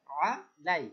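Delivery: আ squeezed deep in the throat, then লাই; Arabic pharyngeal "ain" on আ, then a plain লাই; throaty ain. Shown as a demonstration. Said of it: "আইনটাকে একটু গলা মোটা করতে হবে".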